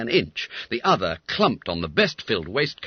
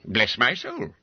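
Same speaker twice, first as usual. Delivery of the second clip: exclaiming; 2 semitones higher than usual. Acted. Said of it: "exclaimed Mister Quelch".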